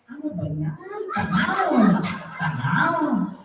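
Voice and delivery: comic complaining with swooping pitch; funny impatient grumbling. Acted. Filipino switches to shorter line, comic grumbling. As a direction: moan comically about the wait. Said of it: "starts making funny noises".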